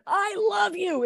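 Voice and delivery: put-on high sing-song baby talk; doggy talk. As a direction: coo it to a dog. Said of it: "they're, like, going like this".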